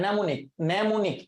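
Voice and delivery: mnemonic said as nemonik, the first m silent. Shown as a demonstration. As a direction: start mnemonic on the n sound, no m. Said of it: "এমটার উচ্চারণ হয় না".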